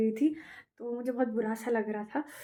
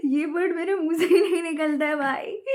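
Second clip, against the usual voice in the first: louder, higher through giggles; laughing; 5 semitones higher, 8 dB louder than usual. Real, not acted. Vlogger laughing that she can't say the word. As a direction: laugh at your own stumble.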